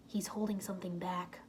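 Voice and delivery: hushed whisper; breathy secret whisper. A narrator's reading. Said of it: "Lloyd whispered".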